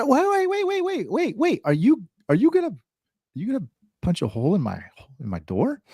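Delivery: very high, fast, alarmed wait; panicked customer. Retold or imitated. Customer stopping the repairman, very high panicked voice. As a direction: stop him before he drills. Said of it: "and the guy".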